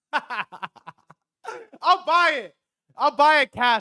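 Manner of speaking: very high, very slow, loud, drawn-out shouted scream. Retelling screaming an offer to buy the Airbnb house: imitating own screaming. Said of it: "I'm screaming it in the house".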